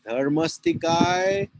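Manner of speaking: drawn-out, careful teacher's model; slow model pronunciation. Shown as a demonstration. Teacher gives student terms to repeat, slow and drawn out. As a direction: slowly sound out each syllable for repeating. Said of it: "can you repeat it after me".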